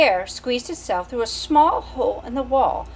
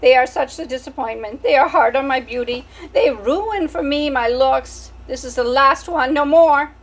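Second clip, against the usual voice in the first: put-on French accent, higher and louder, vain; dramatic French mother; 5 semitones higher, 5 dB louder than usual. Antoinette refusing more babies, French accent. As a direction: declare it with French melodrama. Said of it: "She was a French mouse".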